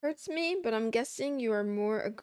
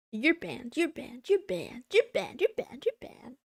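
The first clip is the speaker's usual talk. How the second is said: playful banning; 3 semitones higher, 5 dB louder than usual. Pretend. Mock banning chatters.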